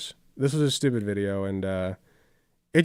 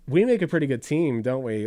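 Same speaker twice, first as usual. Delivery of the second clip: sassy. Retold or imitated. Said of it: "all sassy and whatever".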